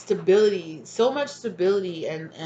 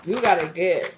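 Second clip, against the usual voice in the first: drawled southern twang. Retold or imitated. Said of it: "I don't know why I keep saying it like that".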